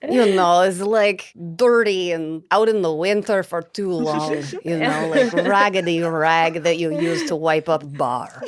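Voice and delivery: put-on light Russian accent, explaining; a hint of a Russian woman describing. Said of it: "trying to do a Russian accent".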